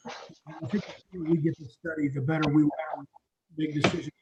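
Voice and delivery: echoey, hollow mic sound; like talking inside a tunnel. Real, not acted. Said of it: "you sound like you're in a tunnel".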